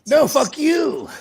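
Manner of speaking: high, loud mock-polite phone voice; hammed-up customer-service sweetness; work voice. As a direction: keep the sing-song courtesy even on the swear. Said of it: "exactly how I sound".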